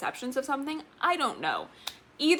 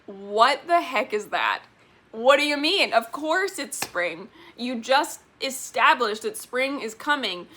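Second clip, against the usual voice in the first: retold exasperation; 2 semitones higher, 4 dB louder, slower than usual. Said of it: "and I was like".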